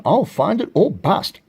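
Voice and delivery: high, emphatic storybook vow; determined cry. A narrator's reading. Horton searching for his friends, determined high cry. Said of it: "cried Horton".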